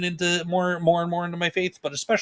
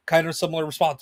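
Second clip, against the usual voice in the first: ordinary delivery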